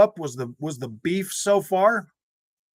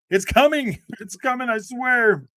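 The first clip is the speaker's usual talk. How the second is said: excited insistence; 8 semitones higher, 3 dB louder than usual. Real, not acted. Excited repeated promise.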